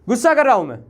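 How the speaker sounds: loud, high angry yell; angry outburst. Real, not acted. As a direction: burst out angrily at the class. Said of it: "मुझे थोड़ा गुस्सा आ गया".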